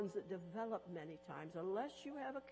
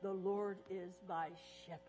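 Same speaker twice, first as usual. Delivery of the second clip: SHEPHERD set apart at the end; even delivery, land gently on "shepherd"; stress on SHEPHERD; 2 semitones lower than usual. Shown as a demonstration. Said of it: "each time emphasizing a different".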